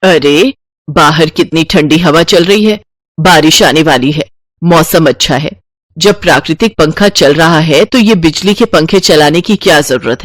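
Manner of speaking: miserly matriarch overruling the family; exasperated mother-in-law. Acted. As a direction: put your foot down about wasting money.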